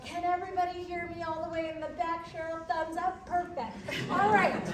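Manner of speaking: loud, projecting teacher voice. Real, not acted. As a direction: project to the back of the room like a teacher. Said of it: "I'll put on my teacher voice for this".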